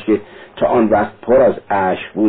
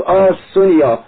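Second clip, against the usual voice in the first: higher, sharp exasperated burst; angry; 9 semitones higher, 4 dB louder than usual. Acted. Raskolnikov cutting Sonya off, an angry high burst. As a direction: snap her name in frustration. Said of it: "راسکولنیکوف با خشم گفت".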